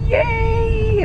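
high, loud cry of joy; excited cheer. Real, not acted. Patient hearing she can skip steroids, excited squeal. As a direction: yelp out the good news. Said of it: "I am so excited".

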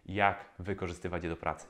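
ordinary talk

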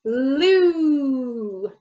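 Glue, back g then tongue-up l. Shown as a demonstration. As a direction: say Glue slowly for the child. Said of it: "with our back sound".

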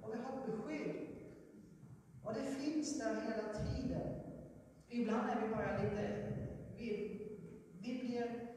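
rising sermon fervour; preaching. Acted. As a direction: preach it to the congregation with conviction. Preaching to the congregation.

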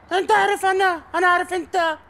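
put-on broken Arabic with an English accent. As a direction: speak Arabic like an American. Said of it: "صار تحكي عربي مكسر".

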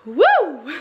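long high-pitched exhaled "woo"; high whoo. Real, not acted. Vlogger reacting to a year of spending, high whoo. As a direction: let out a high, drawn-out whoo. Exclaims at a yearly spending total.

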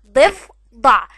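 ضفدع very loud and slow, heavy ض; slow loud model word. Shown as a demonstration. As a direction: model ضفدع for children to repeat. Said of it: "اسمه ايه". (نطق ضفدع ببطء وبصوت عالٍ)

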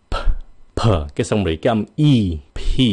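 "P" released with a puff of air; aspirated P. Shown as a demonstration. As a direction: close the lips, then burst out "P". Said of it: "xong rồi phun nó ra". (bật hơi mạnh âm "P")

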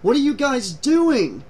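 angry. A narrator's reading. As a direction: demand it crossly, slow and high. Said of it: "Eddie was angry now".

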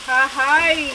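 a loud, happy "¡Ajay!" of delight; delighted exclamation. Real, not acted. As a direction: cry out with pleasure at the food. Sees the cooked rice, delighted. (exclamación encantada)

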